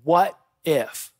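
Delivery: a hint of a sinister voice, lightly voiced; the nagging doubt creeping in; evil inner voice. Preacher voicing the brothers' guilty inner voice, sinister. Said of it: "that evil voice in the back of their head asks".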